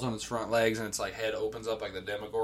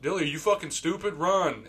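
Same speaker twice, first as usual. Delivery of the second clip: loud, slightly raised retold shout; urgent scolding; 3 semitones higher, 5 dB louder than usual. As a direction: yell at a teammate to flee.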